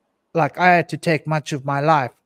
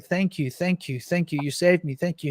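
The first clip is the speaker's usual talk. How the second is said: tearful thanks; 3 semitones higher, 4 dB quieter than usual. Retold or imitated. Ex-wife thanking him for the rescue, softly tearful. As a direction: lightly imitate her shaky grateful crying. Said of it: "And she's crying".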